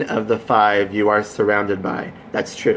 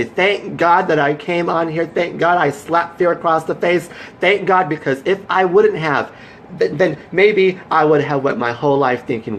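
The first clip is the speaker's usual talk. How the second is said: higher, fervent thank-God pep talk; rousing grateful voice; 5 semitones higher than usual. Retold or imitated. Voicing his future self thanking God, high and fervent. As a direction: sell the triumph to him.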